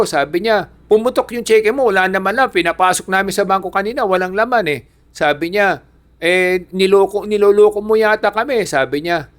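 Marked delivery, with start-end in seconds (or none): 0.9-4.8 angry shopkeeper. Retold or imitated. Shopkeeper scolding the old man over the bounced cheque, mock angry. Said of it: "galit na galit yung, ano, yung, ah, tindero". 6.2-8.7 angry shopkeeper. Retold or imitated. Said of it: "galit na galit yung, ano, yung, ah, tindero".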